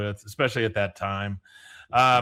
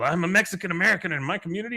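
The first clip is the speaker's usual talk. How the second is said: Enrique; 6 semitones higher, much faster than usual. Retold or imitated. Enrique voiced fast.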